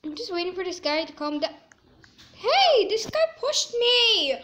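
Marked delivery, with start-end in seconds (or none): 2.3-4.4 loud, high outraged yell; indignant shout. Real, not acted. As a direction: yell at the player who shoved you. Another player pushed him.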